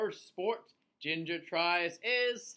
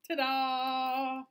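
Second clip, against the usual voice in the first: high, loud triumphant cheer; excited; 8 semitones higher, 6 dB louder than usual. Acted. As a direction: show it off proudly. Ginger finishes with a spin.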